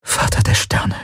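voiceless, hushed whisper. A narrator's reading. Crewmate realizes the danger, horrified whisper. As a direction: whisper it in dread. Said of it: "flüsterte sie".

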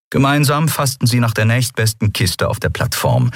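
ordinary delivery, nothing marked

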